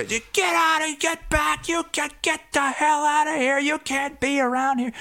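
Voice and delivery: high mock yell of a bossy staffer; angry yelling. Staffer yelling at Iowa cameraman, high mock shout. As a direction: shoo them away like an angry guard. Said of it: "yelling at the other Iowa guy".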